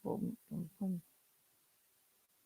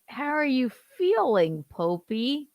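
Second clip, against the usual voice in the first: mock JD voice; 8 semitones higher than usual. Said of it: "And then he goes".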